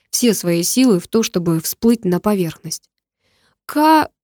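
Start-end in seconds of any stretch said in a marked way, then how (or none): 3.7-4.1 cut-off cry. Acted. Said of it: "вместо того, чтобы закричать".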